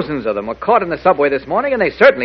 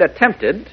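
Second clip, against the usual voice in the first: "attempted" set apart with deliberate weight; "attempted" picked out as the key word; stress on attempted; 3 semitones higher than usual. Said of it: "don't forget that word".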